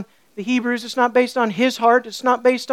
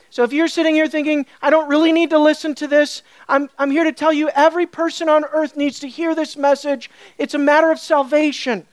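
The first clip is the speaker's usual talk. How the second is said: firm, lifted proclamation; emphatic preaching; 4 semitones higher, 3 dB louder than usual. Real, not acted. Preacher proclaiming God's sovereign lordship, emphatically. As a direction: declare it with conviction.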